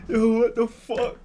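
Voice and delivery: high, loud, stretched-out exclamation; real disbelief. Real, not acted. Reacting to the texts just read, loud disbelief.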